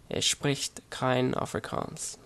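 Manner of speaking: slow, careful attempt at German pronunciation; attempted German accent. Shown as a demonstration. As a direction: try a non-native German accent, taking it slowly. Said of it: "forgive me for my pronunciation and accent".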